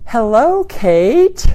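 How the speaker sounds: stretched-out vowels in Hello; drawn-out, welcoming hello; friendly greeting. Shown as a demonstration. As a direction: warm long-vowel greeting. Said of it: "See how I stretched out those vowels?".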